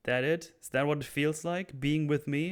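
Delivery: angry challenge. Acted. Oz confronts Vic at gunpoint, offended and angry. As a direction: press him, sounding wounded and heated. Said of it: "I like how angry Oz is here".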